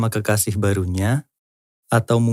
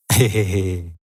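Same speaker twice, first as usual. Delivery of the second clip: chuckle; 2 semitones lower than usual. Real, not acted. Chuckles at own joke.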